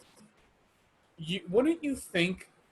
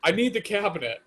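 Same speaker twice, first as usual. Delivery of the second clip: higher, outrage breaking into a laugh; laughing mock outrage; 5 semitones higher than usual. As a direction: fake fury while cracking up. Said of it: "I'd be like".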